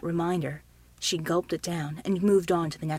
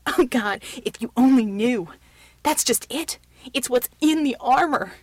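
loud, overwrought outburst; hysterical; 4 semitones higher, 7 dB louder than usual. A narrator's reading. Shaken man after the vault, hysterical. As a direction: near breaking, let it spill out loudly. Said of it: "began to laugh hysterically".

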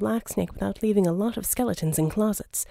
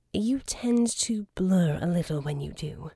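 dry whispered warning; a wry, breathy aside; 3 semitones lower than usual. A narrator's reading. Kanjar warning Verdigris about the blur, whispered.

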